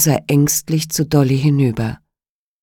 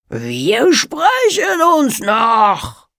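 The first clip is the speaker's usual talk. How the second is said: shouting; 8 semitones higher, much slower than usual. A narrator's reading. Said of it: "brüllte er".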